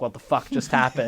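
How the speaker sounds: muted shock. Retold or imitated. Storyteller stunned after the camping questions, muted shock. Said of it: "in shock".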